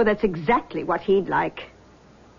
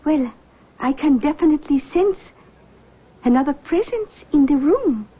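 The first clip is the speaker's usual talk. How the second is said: lightly voiced mystic, higher pitch; seance medium; 5 semitones higher than usual. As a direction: greet them like a gracious clairvoyant. Medium senses presence.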